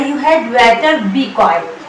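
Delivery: very slow, word by word; slow teaching demo. Shown as a demonstration. Teacher drilling Hindi-speaking students, slow and deliberate. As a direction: spell out each word slowly for learners. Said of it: "इसकी English होगी".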